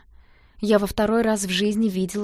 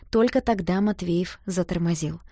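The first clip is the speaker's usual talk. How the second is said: ordinary delivery, nothing marked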